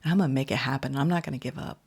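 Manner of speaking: soft, hushed determined vow; quiet resolve. Retold or imitated. Reader voicing Sag's quiet promise, soft and resolved. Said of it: "And you said".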